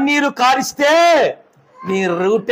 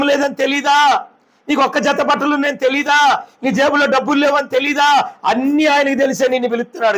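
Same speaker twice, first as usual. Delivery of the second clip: fervent preaching shout, quicker at the end. Real, not acted. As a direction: drive it home, shouting to the crowd. Preacher shouting the sermon's climax.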